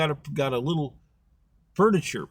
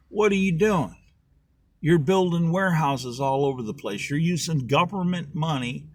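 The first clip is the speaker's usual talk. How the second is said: high, loud mock outrage at the official; hammed-up yelling, accusing him of corruption; angry crowd yelling; 5 semitones higher, 3 dB louder than usual. Townspeople yelling at the official over warehouses, mock-angry shout. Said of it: "a bunch of people screaming at him".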